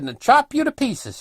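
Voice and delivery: imitating an old fellow yelling; retold yell. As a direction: holler the danger at someone. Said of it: "he's yelling over at me".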